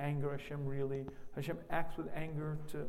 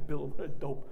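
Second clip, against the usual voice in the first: mocking reader; 4 semitones higher, 6 dB louder than usual. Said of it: "when you read that story".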